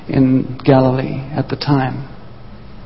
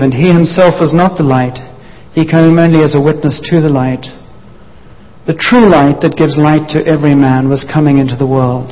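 scripture reading. Acted. Preacher reads John's gospel aloud to the congregation, declaiming. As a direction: read it out like holy text.

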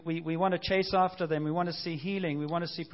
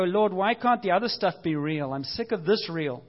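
pleading cry; 4 dB louder than usual. Retold or imitated. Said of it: "And I kinda go".

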